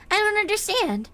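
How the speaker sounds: put-on high, sweet naive girl; innocent Hanako voice. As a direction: play it innocently puzzled.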